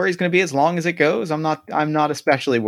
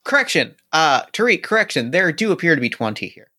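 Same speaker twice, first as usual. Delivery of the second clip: robot voice; 2 semitones higher, faster than usual. Acted. Android correcting count.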